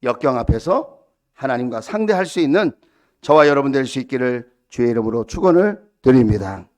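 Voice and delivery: low, loud benediction; solemn, projected pulpit blessing; preacher's blessing. Real, not acted. Solemn blessing over congregation.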